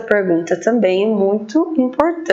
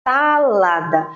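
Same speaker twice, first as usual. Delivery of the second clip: slow sounding out; slower than usual. Shown as a demonstration. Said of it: "começa com salada".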